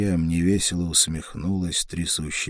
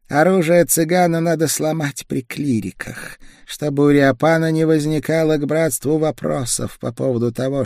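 higher, tense voice of a sick woman; feverish young woman; 9 semitones higher, 3 dB louder than usual. A narrator's reading. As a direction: feverish woman, pushing through chills. Feverish woman magister speaks.

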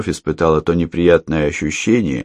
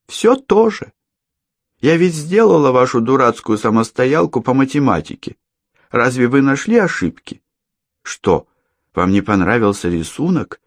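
put-on creepy girl; 7 semitones higher than usual. Girl voiced high.

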